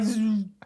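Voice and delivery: buzzy "zoom" of a TV switching off; old TV powering down. Retold or imitated. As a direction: imitate an old set zapping off. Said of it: "feels like an old T V turning off".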